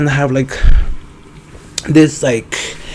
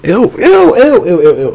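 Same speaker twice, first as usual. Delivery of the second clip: disgusted ew; 5 semitones higher, 5 dB louder than usual. Real, not acted. Grossed out by own joke.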